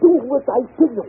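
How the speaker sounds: angry command. Acted. Employer orders his governess to obey, angrily. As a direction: snap the order so she obeys.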